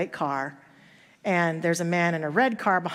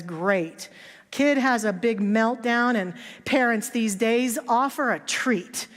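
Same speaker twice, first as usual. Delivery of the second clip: judgmental sarcasm. Retold or imitated. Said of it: "she's very judgmental".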